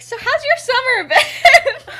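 high, slow, falsely bright question; sarcastic cheery voice masking pain; fake chipper voice. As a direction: put on a forced cheerful front. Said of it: "in, like, this fake, like, chipper voice".

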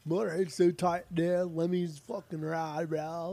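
lightly put-on Poway accent, slow in spots; mock Poway accent. Mocking his friend's love of a band in a Poway accent. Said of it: "With, with Poway accent".

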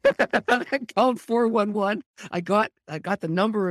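laughing high while telling it. Real, not acted. Pastor recalling the expensive phone call, laughing. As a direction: giggle through the memory.

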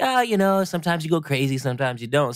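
high, breezy imitation of a shrug; mock casual. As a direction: toss it off like it's nothing. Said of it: "you said it so casually".

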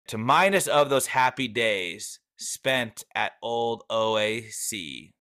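slow, stately verse recital; unhurried, ceremonial poetry reading in own voice; poem reading. Acted. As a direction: draw out each phrase of the closing lines. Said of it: "in my best poem reading voice".

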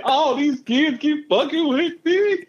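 slow, high imitation of the wailing kid; hammed-up kid lament; rapper rendition. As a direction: drag it out like a crying rapper's line. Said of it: "in the best Tupac rendition voice ever".

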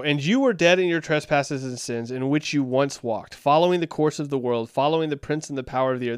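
emphatic Bible reading; scripture reading. Acted. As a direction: read the verse aloud with firm emphasis. Reads scripture aloud.

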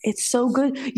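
breathless whispered delight over food; whispered rapture. Real, not acted. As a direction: whisper it like tasting it again. Savoring remembered shrimp.

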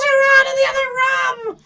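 high, loud panicked cry; retold terrified shout about the candles; frightened shout. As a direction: yelp it like she's scared stiff. Scared friend shouting.

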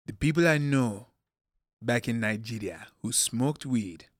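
lightly voiced dad giving a warning; measured, deliberate phrases with pauses, as dad; quoting dad. Son quoting his dad's warning about weed, lightly imitated. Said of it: "my dad said, and I quote".

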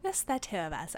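put-on light Mid-Atlantic accent, old-film tone. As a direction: say it like a 1940s Mid-Atlantic announcer. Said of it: "I'm trying Mid-Atlantic".

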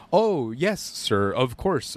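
lightly put-on formal politeness; a touch of formal, deferential courtesy; mock-formal polite voice, dropping in pitch. Shown as a demonstration. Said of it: "you put on, like, that voice".

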